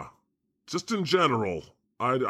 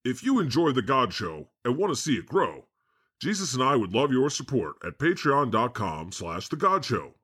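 a lightly voiced God reading a sponsor plug; mock podcast ad read. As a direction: read the Patreon plea like a smooth announcer.

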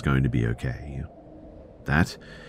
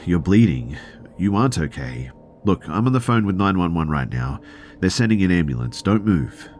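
raised, high urgent warning to a hurt man; urgent alarm; 6 semitones higher, 4 dB louder than usual. Retold or imitated. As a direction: press him hard to stay put, voice up. Urgently tells injured man to stay.

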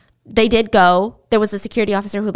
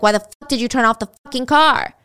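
angry retelling; 3 semitones higher, 5 dB louder than usual. Retold or imitated. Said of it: "And he was mad".

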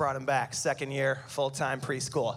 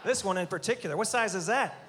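mock teasing; 3 semitones higher than usual. Teasing audience dudes in tight shirts.

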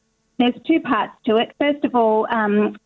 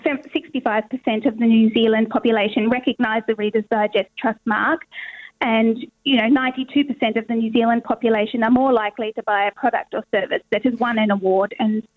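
voice crack. Real, not acted. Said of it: "Sorry, my voice is cracking today".

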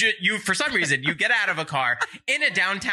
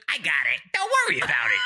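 put-on New York accent; 4 semitones lower, faster than usual. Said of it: "you make me sound like such a New Yorker".

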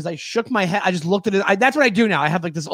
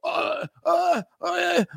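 flustered driver; 8 semitones higher, slower than usual. Retold or imitated. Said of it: "he's like".

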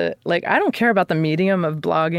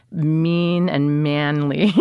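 slow mocking emphasis; much slower than usual. Shown as a demonstration. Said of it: "It's so".

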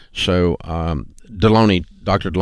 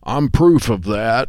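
slow, sulky moan to finish the gripe; hammed-up mopey tag line; sour pickle-faced grump; 2 semitones higher, slower than usual. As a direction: drag it out like a defeated grump. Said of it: "intonation slows down".

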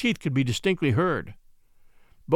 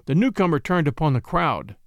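usual speaking voice

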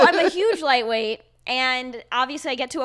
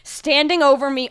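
ordinary talk

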